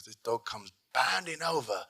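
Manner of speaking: lightly voiced excitable anchor; imitated news anchor. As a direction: retell it as the animated anchor. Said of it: "and he goes".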